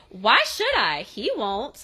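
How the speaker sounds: mild mock snap, punched at the start; retold snapping back. Imitating Miranda snapping back at Lizzie, mildly irritated. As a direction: snap back like a defiant kid, lightly acted. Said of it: "Miranda snaps back and says".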